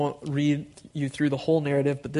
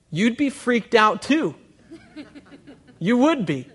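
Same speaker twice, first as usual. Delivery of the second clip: high, laughing and louder; laughing at how scared they'd be; 9 semitones higher, 5 dB louder than usual. Real, not acted. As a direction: chuckle it at the crowd. Preacher laughing at the scene.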